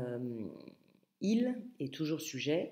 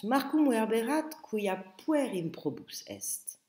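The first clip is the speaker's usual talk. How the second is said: Quintus answering; 6 semitones higher, 4 dB louder than usual. Acted. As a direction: read a touch higher and louder as the boy Quintus. Quintus répond dans le texte. (réplique de Quintus, voix un peu plus haute)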